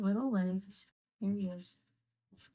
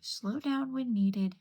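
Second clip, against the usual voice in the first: slow and deliberate; 4 semitones higher, 4 dB louder, slower than usual. Real, not acted. Self-advice while coloring.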